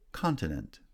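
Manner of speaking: "Continent" with the first syllable strong, then falling; first-syllable stress. Shown as a demonstration. Teacher showing stress patterns, first-syllable stress on "Continent". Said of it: "stress on the first syllable".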